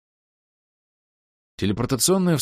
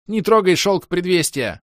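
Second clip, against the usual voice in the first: much higher, louder, slow protest; an elf shouts to save the silk, loud and high; alarmed cry; 11 semitones higher, 6 dB louder than usual. Acted. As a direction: cry out to stop him.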